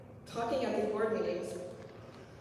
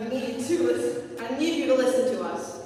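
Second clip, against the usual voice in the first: louder, rising passionate plea; impassioned pleading; 6 dB louder than usual. Real, not acted. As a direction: push harder until it's nearly a shout. Student pleads with board.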